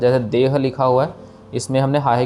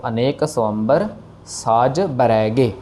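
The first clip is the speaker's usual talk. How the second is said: slow, careful recitation; slower than usual. Shown as a demonstration. Teacher recites phrase slowly for students. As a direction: draw out each word for learners. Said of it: "teacher recites the phrase".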